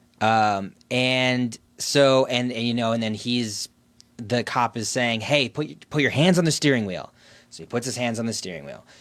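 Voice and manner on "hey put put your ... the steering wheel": shouting, higher and louder. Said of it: "he's just yelling all these hand gesture commands".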